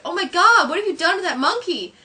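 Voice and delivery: high, loud horrified wife; mock-appalled high voice; Marge. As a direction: gasp it out, aghast. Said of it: "Marge is like".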